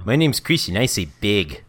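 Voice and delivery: imitating New York accent. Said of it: "I do say that with an accent".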